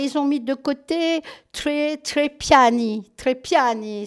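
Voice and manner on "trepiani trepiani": "Trepiani" drawn out in an Italian accent. Real, not acted. Presenter announcing an Italian film title, Italian accent. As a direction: say "Trepiani" the Italian way, slowly at first. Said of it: "c'est parce que c'est italien".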